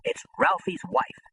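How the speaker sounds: retold shock at seeing his dead friend's wife; stunned shock. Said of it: "I'm in total shock".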